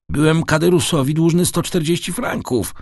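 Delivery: high-pitched protest of disbelief; exclaimed. A narrator's reading. Son shocked at the size of the debt, exclaiming. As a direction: exclaim it in dismay, pitch well up. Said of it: "wykrzyknął Dantes".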